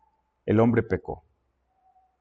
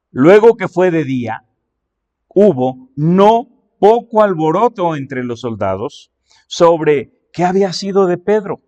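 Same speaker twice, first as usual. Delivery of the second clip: raised, emphatic Bible reading; scripture reading; 2 semitones higher, 4 dB louder than usual. Acted. Preacher reads the verse about the soldiers, emphatic scripture reading. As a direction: read the verse out firmly to a congregation.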